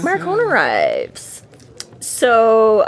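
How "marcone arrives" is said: slow, drawn-out ominous announcement; dramatic announcement. Acted. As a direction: announce the villain's entrance slowly. Echoing the dramatic entrance.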